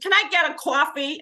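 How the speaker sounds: bad New York accent. Guest quoting a lady at the Orlando conference, bad New York accent. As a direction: imitate a New York woman, badly and loudly. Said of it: "She's from New York".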